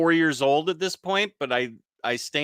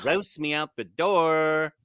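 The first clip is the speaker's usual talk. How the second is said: put-on Valley Girl; slower than usual. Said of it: "saying it like a Valley Girl".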